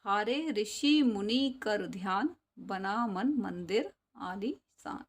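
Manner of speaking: sing-song poem recital for class; poem recitation. Shown as a demonstration. Teacher chanting a Hindi poem for the class, sing-song. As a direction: chant the verse to the pupils.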